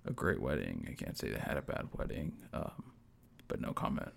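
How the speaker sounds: low gravelly impression of dad. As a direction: drop low and rasp it out like dad. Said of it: "I gotta get my dad's gravelly voice".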